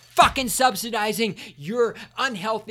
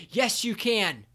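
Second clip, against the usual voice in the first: normal talking voice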